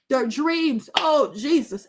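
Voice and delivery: usual speaking voice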